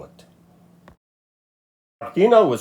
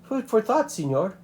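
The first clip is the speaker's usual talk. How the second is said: icy; 10 semitones higher, 4 dB quieter than usual. A narrator's reading. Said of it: "Martina said icily".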